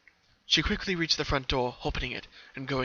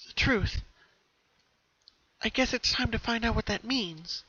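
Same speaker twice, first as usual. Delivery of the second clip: Pinky thinking; 9 semitones higher than usual. A narrator's reading. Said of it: "she thought to herself".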